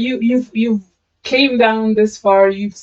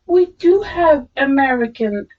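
put-on American girl; 3 semitones higher than usual. Quoting an American girl from a video, lightly mimicked. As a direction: lightly imitate the girl, drawing it out. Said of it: "video watch of some American girl".

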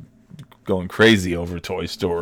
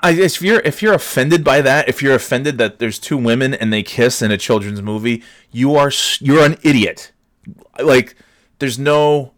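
exasperated rant; 4 semitones higher, 3 dB louder than usual. Real, not acted. Ranting at offended viewers.

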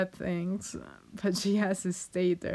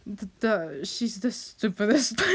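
laughing through tears; 3 semitones higher than usual. Real, not acted. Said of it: "because I'm very emotional".

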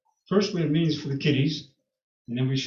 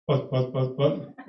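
motor noise; slower than usual. Retold or imitated. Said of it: "she said".

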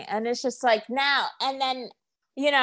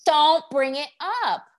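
higher-pitched annoyed retort; exasperated scolding; 7 semitones higher, 3 dB louder than usual. Retold or imitated. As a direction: snap back at a teaser, pitch raised. Scolding people who tease secrets.

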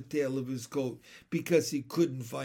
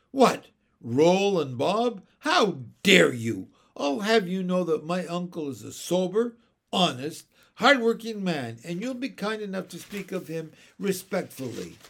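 higher, louder indignant rebuke; offended scolding; 4 semitones higher, 6 dB louder than usual. A narrator's reading. Mary Poppins defending her uncle, offended scolding. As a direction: dress them down in affront. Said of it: "was obviously very offended".

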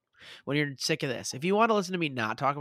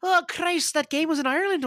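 surprised outburst; 13 semitones higher, 6 dB louder than usual. Real, not acted. Sudden realization about Ireland game.

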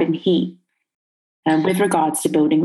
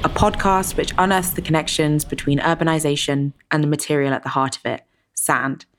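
scripted host welcome, measured and composed; podcast intro; 2 semitones lower than usual. Acted. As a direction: read the show's opening to listeners, pitch settling down at phrase ends.

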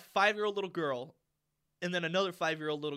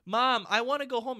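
imitated kid's raised whine; loud child complaint; 5 semitones higher, 5 dB louder than usual. Little girl to mom during the film, loud whining. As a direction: call it out like an impatient child. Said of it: "as loud as she could say it".

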